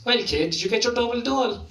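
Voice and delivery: high, buzzing phone greeting; excited caller. Retold or imitated. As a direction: play the friend bursting with news. Friend phones with great news.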